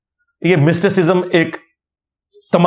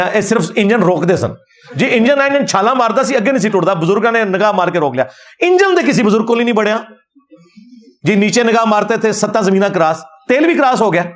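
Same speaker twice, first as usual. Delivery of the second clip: mock Punjabi sermon storytelling, pitch climbing higher; mocking the preacher; 3 semitones higher than usual. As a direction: ham up a pious preacher's miracle tale, lightly. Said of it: "ایک بزرگ کی کرامت بیان کر رہے ہیں". (طنزیہ انداز میں پیر صاحب کی نقل)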